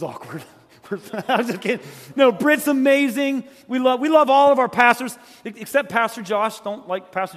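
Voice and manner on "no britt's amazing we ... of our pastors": emphatic backtrack. Real, not acted. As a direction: insist warmly it was a joke. Backpedals after joking about Britt.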